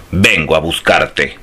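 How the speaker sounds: roaring monster. Acted. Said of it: "rugió".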